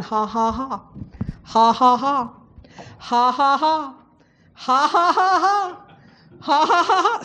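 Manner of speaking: deliberate ha-ha laugh, starting half-hearted and building; forced laugh. Shown as a demonstration. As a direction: make yourself laugh without feeling it. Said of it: "You can make yourself laugh".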